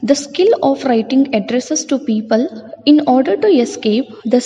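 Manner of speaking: textbook passage read at an even, slightly lifted pace; reading aloud. Acted. Teacher reading the story to the class, steady reading voice.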